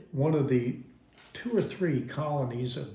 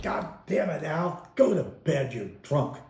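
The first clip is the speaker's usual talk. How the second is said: exasperated scolding; 3 semitones higher than usual. Retold or imitated. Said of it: "in typical mom fashion".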